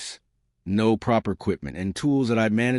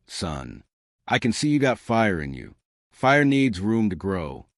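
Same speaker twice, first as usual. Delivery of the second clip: put-on light Texas accent, easy and unhurried; old vet with a slight Texas drawl. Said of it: "that slight Texas drawl".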